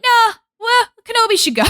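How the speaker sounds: high mocking voice with a cry in it; mocking high council voice. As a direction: squeak it out like a smug council member. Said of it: "They're like".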